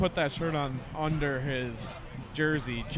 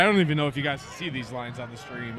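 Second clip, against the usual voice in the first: repeating it louder to be heard; 2 semitones lower than usual. Real, not acted. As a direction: say it again, clearly and louder. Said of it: "I was saying".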